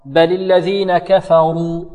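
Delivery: light kaf and fa, heavy ra in كفروا; slow recitation with thin kaf and fa in كفروا; correct recitation. Shown as a demonstration. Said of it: "مفخمة، الكاف مرقة والفاء مرقة". (ترقيق الكاف والفاء في كفروا)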